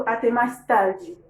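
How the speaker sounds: slow demo. Shown as a demonstration. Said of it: "demo of farewell".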